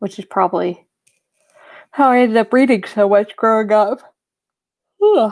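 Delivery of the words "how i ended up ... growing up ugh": words stretched out, spoken through a yawn. In a casual talk, the speaker yawns while speaking. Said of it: "Don't know why I'm yawning so much".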